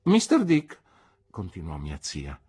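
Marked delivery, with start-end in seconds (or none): 0.0-0.8 high, loud call of his name; sharp address. Acted. Aunt calling Mister Dick to attention again, sharp loud address.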